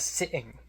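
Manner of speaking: SITTING with the middle T dropped to a glottal stop; stereotyped British pronunciation. Retold or imitated. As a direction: imitate her British slip on "sitting". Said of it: "she unconsciously says".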